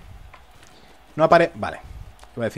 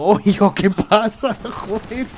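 laughing; 6 semitones higher, 4 dB louder, much slower than usual. Real, not acted. Laughing surprise during game fight.

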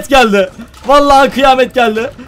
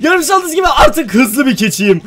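usual speaking voice

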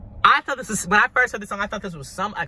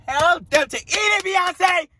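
high, slow, drawn-out holler; excited fan yell; 12 semitones higher, 4 dB louder, slower than usual. Real, not acted. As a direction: cheer the star on at the top of the range.

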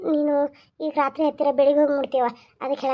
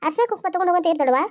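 quick mocking quote; faster than usual. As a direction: rattle off her words fast, mocking. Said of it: "ಅವ್ ಏನೋ ಹಂಗ ಅಂದಾಳ". (ತಂಗಿಯ ಮಾತನ್ನು ವೇಗವಾಗಿ ಅಣಕಿಸುತ್ತ)

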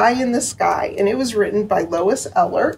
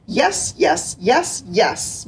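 meowing cats; much slower than usual. Acted. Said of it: "meowed the cats".

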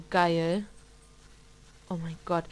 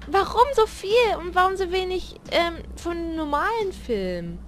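exasperated; 7 semitones higher than usual. Real, not acted. Complains about film count.

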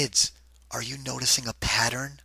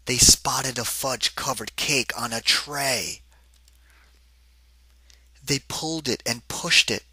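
excited storybook read; slower than usual. A narrator's reading. Narrator reading the cake scene to kids, excited storybook voice. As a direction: ham up the big ant crowd for the kids. Reads picture book aloud.

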